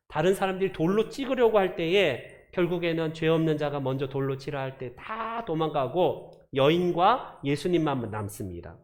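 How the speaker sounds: ordinary talk, nothing marked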